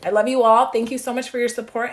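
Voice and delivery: loud beaming sign-off; excited. Real, not acted. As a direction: call out your love to the class. Warm sign-off to viewers.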